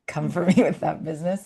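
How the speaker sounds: laughing through a playful comeback. Real, not acted. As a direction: chuckle while firing back at a friend.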